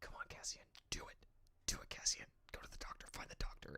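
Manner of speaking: soft, breathy whisper under the breath. Recalling urging a character on while watching, retelling her whispering at the screen. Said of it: "I'm whispering at the at the screen like".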